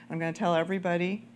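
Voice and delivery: lightly voiced mom, firm and gentle. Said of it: "I'm gonna put on my mom voice".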